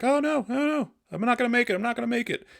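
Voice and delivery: Peppy losing control, hammed-up high panic; panicked screaming pilot. Pilot screaming on radio as ship goes down, hammed-up high panic. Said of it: "He hears Peppy kinda screaming".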